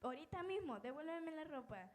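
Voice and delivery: a lightly voiced aunt who wants it right now; demanding aunt. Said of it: "Y me decía".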